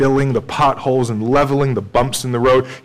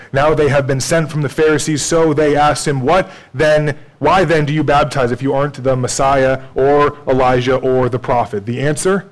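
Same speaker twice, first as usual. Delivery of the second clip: raised, louder pulpit delivery; full-force preaching; 5 semitones higher, 6 dB louder than usual. Acted. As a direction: preach it out to the congregation. Preached scripture reading.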